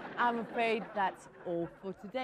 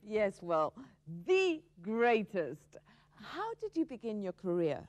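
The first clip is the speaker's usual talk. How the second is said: put-on American accent; 2 semitones higher, 3 dB louder than usual. A cowboy guest boasts to the TV host in an American accent. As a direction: ham up the American rodeo star, swaggering and loud. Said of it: "what happened to your American accent".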